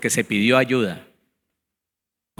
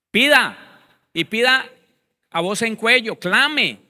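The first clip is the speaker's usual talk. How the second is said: rising fervor; 4 semitones higher than usual. Real, not acted. Preacher rising in intensity.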